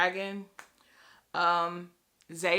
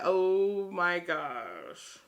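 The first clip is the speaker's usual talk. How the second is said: drawn-out, slow oh my gosh; slow awed gasp; 2 semitones lower, much slower than usual. Retold or imitated. Reacting to the book, slow stunned oh my gosh. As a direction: let the words hang in slow disbelief. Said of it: "I'm just like".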